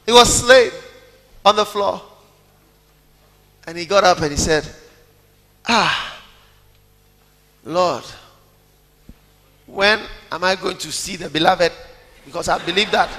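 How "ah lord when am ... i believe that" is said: mock plea. Mocking slain believer.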